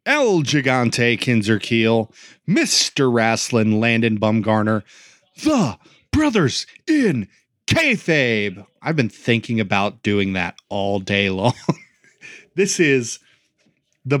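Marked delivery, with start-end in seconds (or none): 0.0-8.7 booming ringmaster announcing the champions. Acted. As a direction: ladies and gentlemen, circus style. Ringmaster style show intro.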